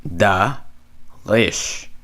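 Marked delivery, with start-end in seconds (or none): 1.2-1.9 Rish with a throaty Hebrew r, like "khrish"; rolled Hebrew r. Shown as a demonstration. Teacher modelling the dagesh syllable Rish. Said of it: "Not da Gish".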